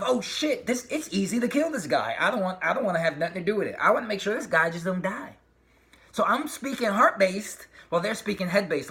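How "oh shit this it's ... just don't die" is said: mock panic. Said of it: "the feeling of".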